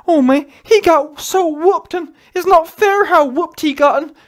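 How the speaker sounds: mock loud crying whine. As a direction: ham up a crybaby's loud complaint. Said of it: "what's wrong with you man crying".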